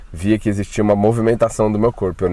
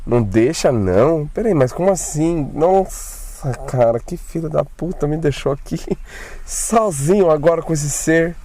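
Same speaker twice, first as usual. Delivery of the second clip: higher, frantic retold panic; scared disbelief, voice raised in pitch; panicked inner thoughts; 5 semitones higher than usual. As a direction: replay the moment you realise you've been left alone. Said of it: "Aí eu fiquei pensando".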